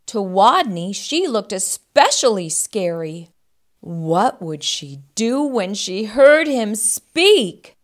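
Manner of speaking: animated picture-book reading with swinging pitch; expressive storyteller; children's story narration. A narrator's reading. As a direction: read to young children, drawing out the suspense.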